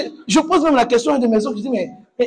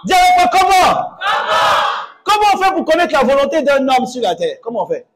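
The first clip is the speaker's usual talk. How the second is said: fiery preaching. Acted. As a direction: preach it hard to the congregation. Pastor preaching to congregation.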